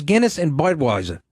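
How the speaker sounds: imitating an Irish bartender's accent; lightly put-on Irish brogue. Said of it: "heavy Irish accent".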